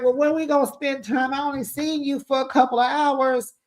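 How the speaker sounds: high, whiny mock girlfriend; lightly hammed-up high pleading voice; imitating her. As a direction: squeak it out like a clingy girlfriend. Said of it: "And she like".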